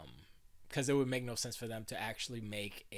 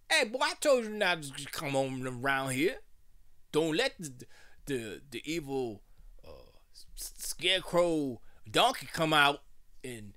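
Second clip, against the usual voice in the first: louder, hammed-up porch grandpa, ending in a hush; old man on the porch; 5 dB louder than usual. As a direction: warn the boy like a spooky old timer. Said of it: "an old wise old man on the porch".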